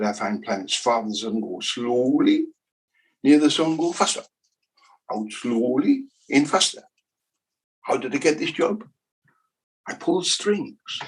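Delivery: put-on a light comic German accent; a lightly voiced German Kepler. Lecturer voices Kepler joking about his job, light German accent. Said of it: "he spoke like this".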